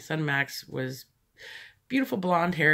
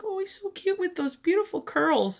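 gushing lady. Retold or imitated. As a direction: coo it like a doting stranger. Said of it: "And she's like".

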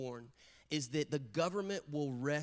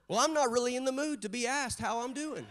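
irritated retort; 7 semitones higher, 3 dB louder than usual. Retold or imitated. Irritated dad's inner retort, played up.

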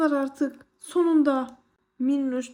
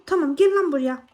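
louder, punch GEL in "gel lan buraya"; angry call; 4 dB louder than usual. Real, not acted. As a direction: challenge it to come over. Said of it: "Sinirlendirdiniz beni". ("gel" vurgulu, kızgın çağrı)

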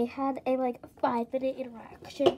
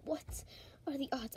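disbelieving whisper; 11 dB quieter than usual. Acted. Muttering in disbelief.

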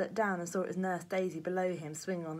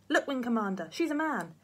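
put-on amazed boy; 6 semitones higher, 6 dB louder than usual. A narrator's reading. Jack amazed by discovery.

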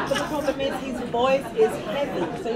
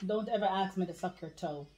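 whisper; 3 semitones lower, 9 dB quieter than usual. Acted. And don't talk too loud.

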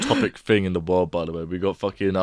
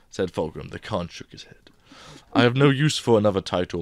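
reading a novel excerpt aloud, lightly voiced characters; story reading. Podcast host reading a Horus Heresy excerpt to friends, lightly voiced story reading. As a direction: read the primarchs' dialogue with a light touch.

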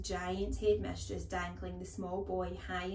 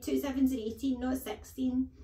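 put-on higher, louder panicky boy; cried out; 6 semitones higher, 6 dB louder than usual. A narrator's reading. Small boy sensing danger, crying out hastily. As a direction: blurt out a desperate guess. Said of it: "he cried".

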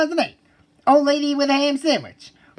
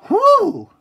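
relieved gasp; 11 semitones higher, 6 dB louder than usual. Acted. Relief after near crash.

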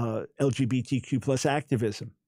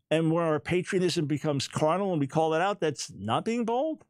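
ordinary delivery

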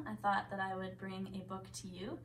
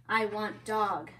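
slow, louder troll demand; growling troll; 8 dB louder, slower than usual. A narrator's reading. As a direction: growl it slowly like a greedy troll. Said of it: "squealed and growled".

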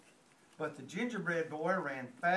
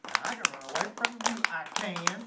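a louder, taunting chant; boastful shout; 2 semitones higher, 4 dB louder than usual. Acted. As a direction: crow it out like a cheeky runaway. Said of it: "he shouted".

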